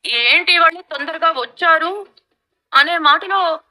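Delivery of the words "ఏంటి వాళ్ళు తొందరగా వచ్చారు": slow, mild re-asking to show no sting; innocent replay. Shown as a demonstration. Mother-in-law replaying her question, mock innocent. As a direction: say it slowly as if harmless. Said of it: "ఇన్ని లవంగాలున్నాయా".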